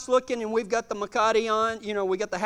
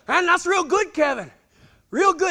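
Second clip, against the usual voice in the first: raised, higher cheering; encouraging praise; 6 semitones higher, 5 dB louder than usual. Retold or imitated. Cowboy to shaken rider after the fall, upbeat encouragement. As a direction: praise him brightly, voice lifted.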